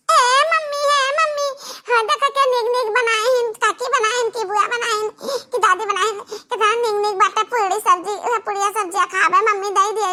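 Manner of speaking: put-on excited kid voice to mummy; childlike excitement. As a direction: squeal over the puri like a child. Child character excited about food.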